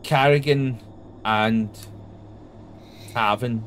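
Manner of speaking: drawn-out scene setting with long silences; game master narration. A narrator's reading. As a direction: build suspense with heavy pauses.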